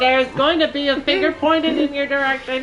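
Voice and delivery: playful scolding. Real, not acted. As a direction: tease him with mock outrage. Playful scolding while tickled.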